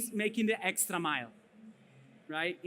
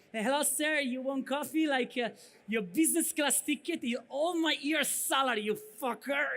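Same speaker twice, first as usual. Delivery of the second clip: sugary, higher service voice with the venom slipping out; mock flight attendant; 3 semitones higher than usual. Pan Am flight attendant faking a smile at a business passenger, sugary mock voice. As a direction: imitate a fake-sweet Pan Am hostess greeting a passenger. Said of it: "So that's the fake smile".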